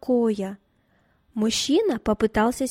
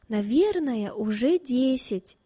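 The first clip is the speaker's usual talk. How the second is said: unsure; 2 semitones higher, slower than usual. Acted. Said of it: "неуверенно ответила".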